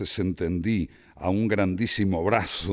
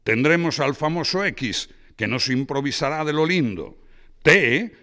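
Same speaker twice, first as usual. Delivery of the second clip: much higher and louder, bragging about his guests; boisterous Braulio; 6 semitones higher, 4 dB louder than usual. Acted. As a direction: show off the party like a host. Braulio voiced by reader.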